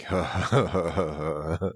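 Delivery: deep, slow, booming laugh; low laugh. Shown as a demonstration. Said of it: "start laughing really low".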